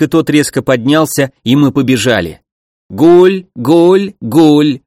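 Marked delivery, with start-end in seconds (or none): 2.9-4.8 loud, high cooing call; pigeon cry. Acted. Approaching monster pigeons, loud eerie cooing. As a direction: coo out like a monstrous bird.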